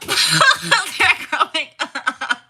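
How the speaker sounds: high, loud words through laughter; laugh-cry it out slowly; breaking into high laughter; laughing wail. Real, not acted. Laughing over sons growing up.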